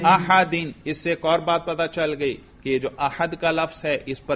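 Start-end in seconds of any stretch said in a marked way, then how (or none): 0.0-0.7 احدین said as ahadin, ending in in; genitive with tanwin. Shown as a demonstration. Teacher demonstrating the jarr ending for students, ahadin. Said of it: "جر پر تلفظ کریں".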